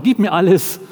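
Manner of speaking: repeating captain's demand. Retold or imitated. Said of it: "Das waren so seine Worte".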